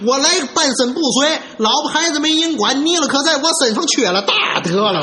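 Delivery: fast, indignant self-defence; flustered, worked up. Acted. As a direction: rattle off an aggrieved protest. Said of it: "他可急了".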